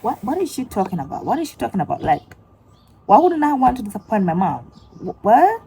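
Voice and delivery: high, loud, incredulous reaction; baffled disbelief. Retold or imitated. Vlogger reacting in shock to the TikTok, loud and high. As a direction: squeal it like you can't believe it.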